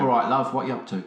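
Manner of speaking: mock chat-up line. Shown as a demonstration. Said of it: "give us an example of a bit of fancy patter".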